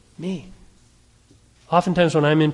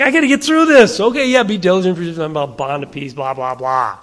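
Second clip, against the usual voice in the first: mock hurried reader; faster than usual. Pastor mocking a careless devotional reader, dismissive. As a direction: rattle it off like a chore. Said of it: "It's like".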